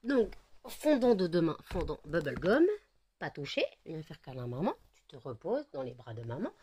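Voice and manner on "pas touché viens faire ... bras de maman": tender cuddle voice. Real, not acted. Cuddling the dog.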